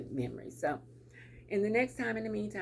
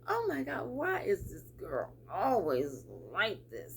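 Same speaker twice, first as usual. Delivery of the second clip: exasperated. Retold or imitated. Mocking her own reaction to a contrary girlfriend, exasperated. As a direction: roll your eyes at the difficult friend. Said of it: "I'm like".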